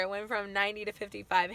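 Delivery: slightly hoarse voice; losing voice. Real, not acted. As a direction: speak through a worn voice. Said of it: "I'm losing my voice".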